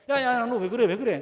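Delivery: father snapping at a daughter slamming the chair, loud; retold yell. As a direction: shout through the door to stop the banging. Father yelling at banging child.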